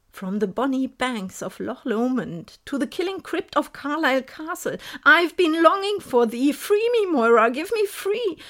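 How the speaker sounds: the ghost pleads, rising to a cry. Acted. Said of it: "die Stimme in meinem Kopf lauter denn je".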